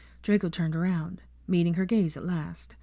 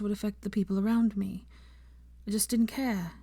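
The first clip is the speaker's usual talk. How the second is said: voice breaking; 5 semitones higher than usual. Acted. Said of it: "her voice broke".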